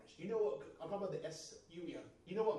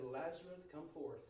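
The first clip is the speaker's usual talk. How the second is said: quiet command; 7 dB quieter than usual. Shown as a demonstration. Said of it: "he didn't have to shout".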